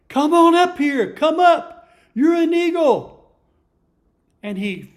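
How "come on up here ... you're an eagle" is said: loud, high call; father eagle calling. Acted. Father eagle calls his son up from the coop, loud and high. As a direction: call him up with all your voice. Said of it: "his dad calling him".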